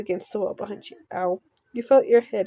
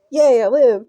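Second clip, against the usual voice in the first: excited; 7 dB louder than usual. Real, not acted. Streamer relieved at surviving.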